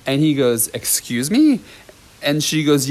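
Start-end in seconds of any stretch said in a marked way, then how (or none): 0.7-1.6 mock-incredulous question, pitched up; disbelieving, with a rising lilt; taken aback. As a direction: imitate someone startled by an accusation. Teacher's disbelief at accusation.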